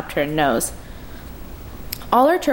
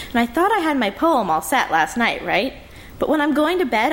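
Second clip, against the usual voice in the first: chatty little sister; 4 semitones higher than usual. Acted. Lee babbling excitedly.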